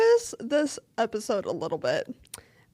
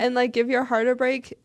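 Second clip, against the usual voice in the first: whispering; 5 dB louder than usual. Real, not acted. Gushing about favorite songs.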